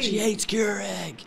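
high, slow calling out; mock amazed fan. Co-host voicing astonished fans, high drawn-out cry. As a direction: stretch it out like a hyped crowd member.

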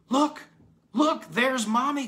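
put-on very high, loud little-boy shout; excited cry. A narrator's reading. Harry Todd spots Mommy in the window, crying out. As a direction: cry out, each Look a sharp burst. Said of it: "cried Harry Todd, pointing".

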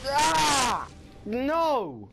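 high, loud wail; hammed-up death cry. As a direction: wail as the final blow lands. Killed by the boss.

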